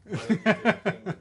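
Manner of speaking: high, fast, laughing repeat. Real, not acted. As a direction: laugh the words out.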